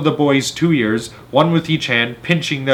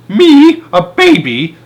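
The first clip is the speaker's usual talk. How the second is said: high, loud outraged shout; shrieking outrage at a baby; 14 semitones higher, 7 dB louder, slower than usual. A narrator's reading. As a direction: blast it out in disbelief. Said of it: "shouted the Trunchbull".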